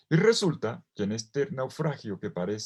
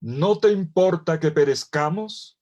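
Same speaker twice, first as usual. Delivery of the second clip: mock shout; 7 semitones higher, 6 dB louder, slower than usual. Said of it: "le mandaron un grito a Jesús".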